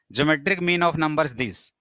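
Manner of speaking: very slow, word by word dictation. Shown as a demonstration. Teacher dictating a question to the class, very slow and word by word. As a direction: spell out each word slowly for notes. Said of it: "teacher dictating a question".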